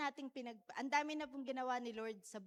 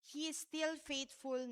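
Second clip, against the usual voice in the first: slow, higher, hit still; stress on still; 4 semitones higher than usual. Shown as a demonstration. Preacher repeating her point to the church, stressing still. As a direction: still lifted high and slow. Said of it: "ulitin ko po".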